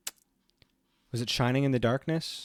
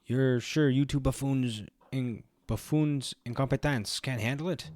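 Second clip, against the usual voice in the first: scoffing boss voice. Acted. Game character scoffs at two hired hands.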